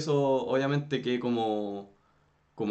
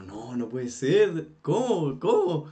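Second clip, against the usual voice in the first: a real jolt of disbelief, rising; stunned disbelief; 3 semitones higher, 4 dB louder, slower than usual. Retold or imitated. Retelling his reaction on seeing the news on TV, stunned disbelief. Learning Maradona died on TV.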